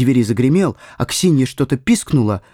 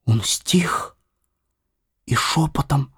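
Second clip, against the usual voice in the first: unvoiced whisper; hushed narration; 3 dB quieter than usual. A narrator's reading. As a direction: breathe it out as a secret.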